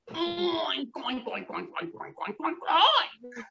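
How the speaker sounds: playful oinking pig; a string of silly oinks. Acted. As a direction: oink like a dancing pig.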